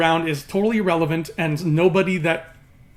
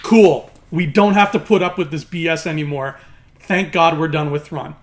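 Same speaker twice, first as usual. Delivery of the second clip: relieved cheer; 4 dB louder than usual. Retold or imitated. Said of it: "I'd be like".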